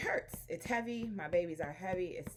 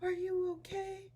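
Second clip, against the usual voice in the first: imitating a young son. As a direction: imitate a little boy checking on mom. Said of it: "my son wakes up and he's like".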